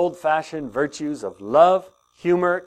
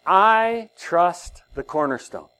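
calm declaration; 3 semitones higher, 3 dB louder, slower than usual. Shown as a demonstration. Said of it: "I say it out loud".

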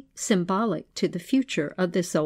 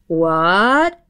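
startled exclamation; 2 semitones lower, 4 dB louder than usual. Acted. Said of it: "exclaimed the old pixie thief".

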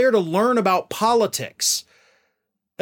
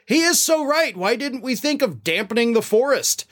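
higher-pitched sarcastic praise; mock agreement; 5 semitones higher than usual. Host quoting a comic's jab at Trump, mock agreement. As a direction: play up the fake amazement. Sarcastic quote of Kimmel's joke.

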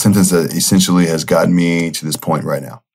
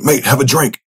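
a fading hint of the friend's accent, higher; half-remembered accent of a mate, coaxing; faded Mark's accent; 6 semitones higher than usual. Friend Mark urging him to drink again, in a fading accent. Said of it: "my permanent Mark accent has gone".

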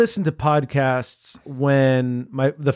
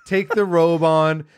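slow host; 3 semitones higher, slower than usual. Acted. Hosting act.

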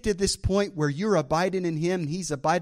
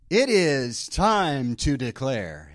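slow, drawn-out game show announce; light game show host announcer; 3 semitones lower, 4 dB louder, much slower than usual. Pretend. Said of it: "Sound like a game show host".

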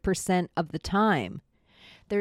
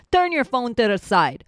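mock catchphrase; 4 semitones higher, 4 dB louder than usual. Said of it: "quoting Schultz catchphrase".

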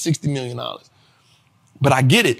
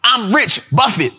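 impression of a rapper; 4 semitones higher, slower than usual. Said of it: "When they would say something like that".

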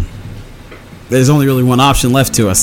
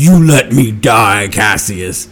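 put-on grieving dead boy's spirit; 5 semitones higher than usual. Dead boy's spirit accusing Cassius of failing him, grieving. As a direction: plead in anguish as a wronged spirit. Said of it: "still in grief over dying".

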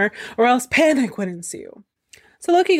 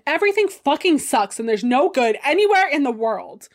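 higher, overdone gloom; dramatic sulk; 5 semitones higher than usual. Acted. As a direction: moan it like a drama queen. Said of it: "Because he's quite dramatic".

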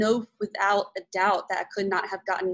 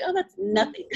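laughing; 10 semitones higher, 4 dB louder than usual. Retold or imitated. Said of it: "I'm just like".

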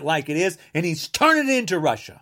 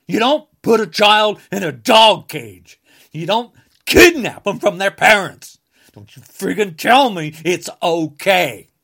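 louder, forceful condemnation; loud angry; 7 dB louder than usual. Real, not acted. Condemning child cages and family separation, loud anger. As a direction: hammer each line hard.

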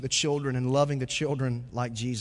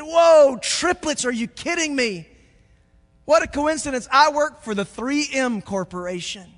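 high, loud disbelieving dad; astonished dad; 12 semitones higher, 10 dB louder than usual. Acted. Pastor telling a joke, dad astonished by triplets. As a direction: gasp at the coincidence.

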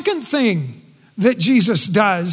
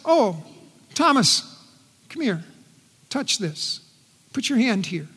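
gentle invitation; 2 semitones lower, 6 dB quieter than usual. Acted. Jesus gently invites Thomas.

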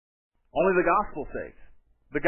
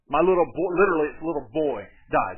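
desperate plea; 4 dB louder than usual. Retold or imitated. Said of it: "you get the desperation in this man's tone".

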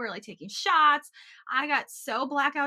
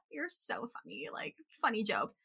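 whispered disbelief; 6 dB quieter than usual. Retold or imitated. Hungover teen to friend's mom, whispered amused disbelief. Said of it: "And I was like".

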